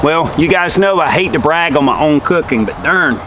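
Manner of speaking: talking through a bite of food; words round a mouthful; mouth full. Real, not acted. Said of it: "Talking with my mouth full".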